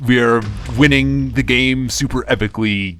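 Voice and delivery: high, loud hyped YouTuber intro; hammed-up energetic YouTuber greeting. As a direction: blast it out like a channel intro. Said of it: "I'm gonna develop a YouTuber voice".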